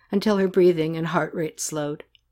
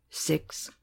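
whisper; 10 dB quieter than usual. A narrator's reading. Boy's age given.

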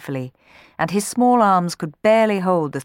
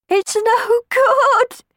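very slow, much higher, loud sobbed words; sobbing; 7 dB louder, much slower than usual. Acted. Stuck sweep boy giving up, slow high sobbing. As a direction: sob it out in despair. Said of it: "he sobbed".

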